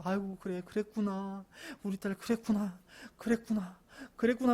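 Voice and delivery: lightly acted soothing father; gentle, repeated reassurance; patient empathy. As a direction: keep comforting her, one sympathetic murmur after another. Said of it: "또 공감해달라고".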